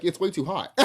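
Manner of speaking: laughing while quoting the teacher; teacher's line, laughing; laughing quote. Retold or imitated. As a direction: chuckle it out. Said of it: "He was like".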